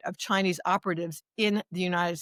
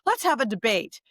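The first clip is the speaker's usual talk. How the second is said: higher, insistent retold challenge; defiant challenge; 5 semitones higher than usual. Activist retelling her challenge to a hostile caller, defiant. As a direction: throw down the challenge, stressing each side.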